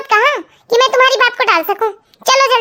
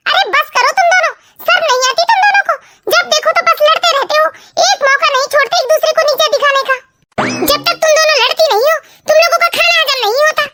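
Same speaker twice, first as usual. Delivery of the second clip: scolding; 3 semitones higher than usual. Acted. Mother scolds quarrelling girls.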